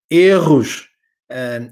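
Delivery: ordinary delivery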